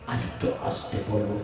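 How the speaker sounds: soft unvoiced whisper. Shown as a demonstration. Preacher teasing the crowd by whispering. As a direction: drop to a whisper to tease. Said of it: "যত আস্তে করে বলতে বলবো".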